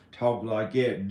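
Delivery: a second country twang; another country accent. Shown as a demonstration. Vlogger comparing different country accents, another country accent. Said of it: "different country accents".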